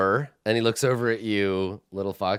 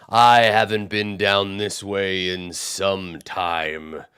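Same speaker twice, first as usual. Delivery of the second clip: slow, lower musing cyclops; hungry giant reminiscing; brooding giant; 4 semitones lower, much slower than usual. Acted. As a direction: wander and wonder like a hungry giant.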